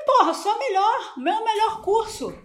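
hammed-up bragging; mock boast. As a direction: crow it out proudly with a laugh. Retold boastful answer.

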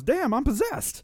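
high, loud, drawn-out outburst; big mock movie-hero exclamation; imitated exclamation. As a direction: mimic his over-the-top exclamation, loud and stretched. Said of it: "a really good exclamation from him".

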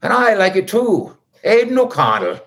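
a quick, weak Irish accent on Aidan O'Connell. Shown as a demonstration. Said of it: "It's the best I got".

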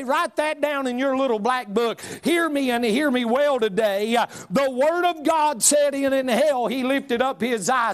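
mock preacher daddy shouting; hammed-up fiery preacher quote; preaching daddy. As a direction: boom it out like a country preacher. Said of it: "My daddy would say".

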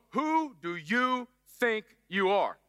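very slow, drawn-out motherly scold; slow mock mom scolding. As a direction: drag it out like a mom who's had enough. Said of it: "it's gotta be said in that slow".

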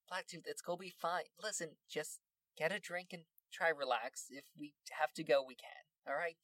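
soft, calming aside; reassuring. Acted. Red Fang calming Blacktooth coming in, reassuring. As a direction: soothe a nervous friend quietly.

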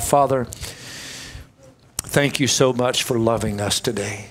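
earnest pastoral prayer; closing prayer. Acted. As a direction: pray over the room with conviction. Closing prayer over congregation.

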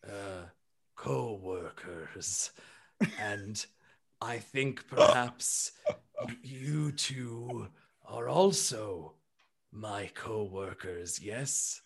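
low, soft and very slow, groping for the right word; a polite elephant checking he got it right; hesitant gentle elephant. Acted. Bertrand introducing the group as co-workers, low, soft and hesitant.

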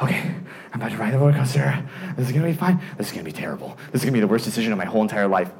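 fast, low, anxious muttering; dreading self-talk. Retold or imitated. Rider made to sit down in the car, hurried dread. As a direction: mutter your doom quickly under your breath.

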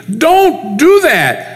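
upset protest. Retold or imitated. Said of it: "extremely frustrated and extremely upset".

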